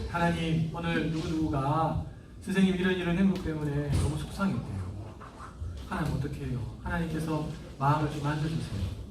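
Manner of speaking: put-on soft, hushed prayer with the child; gentle prayer. Shown as a demonstration. Parent praying beside upset child, soft and gentle. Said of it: "하고 풀어줘야 돼요".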